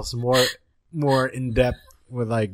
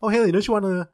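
sweetly coaxing, pitched up; 6 semitones higher than usual. Retold or imitated. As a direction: sell her on the K-pop store. Coaxing his wife with excuse.

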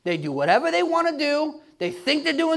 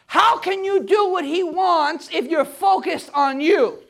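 full-force preaching. Acted.

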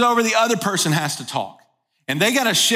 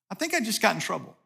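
quiet inner thought; 8 dB quieter, faster than usual. Retold or imitated. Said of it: "we walk away going".

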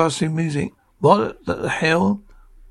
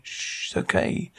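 unvoiced whisper, much softer, to soothe a baby; hushed shushing; 8 dB quieter than usual. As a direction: shush the crying baby in a breathy hush. Hushing crying baby.

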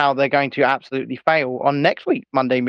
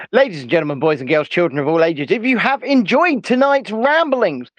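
ringmaster announcing to the crowd; grand entrance announcement; 3 semitones higher than usual. Acted. Mock showman address to audience.

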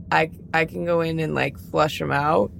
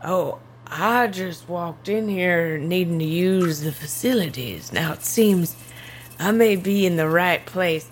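lightly drawn-out cowboy swagger; gunslinger character. Acted. Gunslinger to strangers in the bathroom, slow and casual. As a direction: saunter through the words slowly.

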